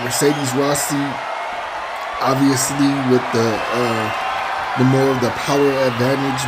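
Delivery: lively ringside play-by-play; wrestling commentator. Acted. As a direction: call the match like a TV announcer. Live play-by-play of wrestling match.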